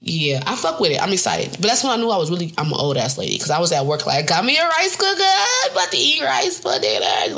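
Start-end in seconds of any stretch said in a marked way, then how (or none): 4.3-7.4 giddy excitement. Retold or imitated. Excited about new rice cooker.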